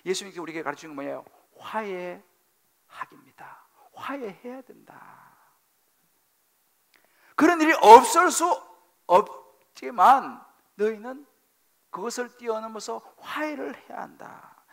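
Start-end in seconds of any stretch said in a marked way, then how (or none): 1.6-3.7 a breathy secret, drawn out; soft whisper. Acted. Pastor answers his own question. 3.9-5.4 softer, slow and hushed, 화해해야 leaned on gently. Acted. Repeats the answer softly. 7.3-14.6 suddenly louder, higher, pressing the point; rising to a preach. Acted. Pastor raises voice to command.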